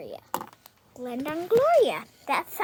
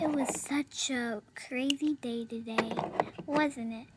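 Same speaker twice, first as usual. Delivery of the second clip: whisper; 4 semitones lower, 7 dB quieter than usual. Acted. Bedtime chat.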